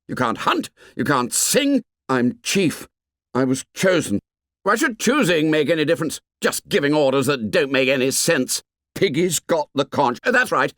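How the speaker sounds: angry. Acted. Jack's angry retort.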